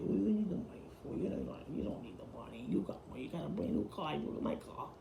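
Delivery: hushed, breathy imitation of Michael's whisper. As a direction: lean in and whisper it like a secret warning. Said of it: "gets done whispering to you".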